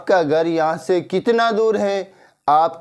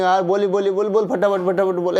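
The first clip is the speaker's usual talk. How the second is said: rude pushy tone; 3 semitones higher than usual. Shown as a demonstration. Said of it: "ऐसे नहीं बोलेंगे".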